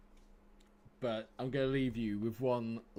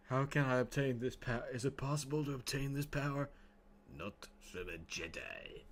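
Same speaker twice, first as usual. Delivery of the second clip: a hint of a scheming Sith lord; Palpatine and Anakin lines; 5 dB quieter than usual. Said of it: "I'll do the impression for you".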